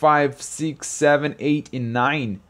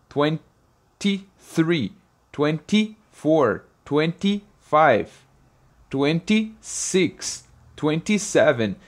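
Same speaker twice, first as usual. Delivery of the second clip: slow counting; much slower than usual. Shown as a demonstration. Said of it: "slow counting for students".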